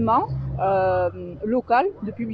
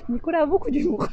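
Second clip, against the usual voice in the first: talking through high giggles; laughing; 8 semitones higher, faster than usual. Real, not acted. Organizer laughing at interviewer's pun, speaking through giggles. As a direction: still laughing at the joke, words squeezed out.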